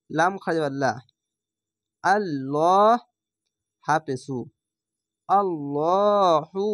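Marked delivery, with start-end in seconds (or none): 5.3-6.7 আল্লাহু with a full, dark ল, chanted; slow chant of আল্লাহু with a thick ল; heavy lam recitation. Shown as a demonstration. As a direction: make the ল in আল্লাহু heavy and round. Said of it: "এই ল উচ্চারণ কেন করছি".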